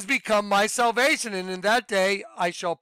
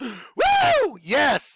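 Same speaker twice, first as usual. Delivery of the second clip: high, swooping joyful shout with long woo; 6 semitones higher, 4 dB louder than usual. Acting out the verse's call to cry out: shouting for joy. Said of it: "let me do that one more time".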